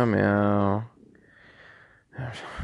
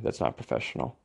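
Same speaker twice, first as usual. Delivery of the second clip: soft, unvoiced aside; muttered aside; 10 semitones lower, 12 dB quieter, much faster than usual. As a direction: whisper it to yourself, embarrassed. Muttered aside after cursing.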